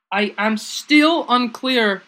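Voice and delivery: slow Southern drawl; Southern accent. Pretend. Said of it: "That was really Southern".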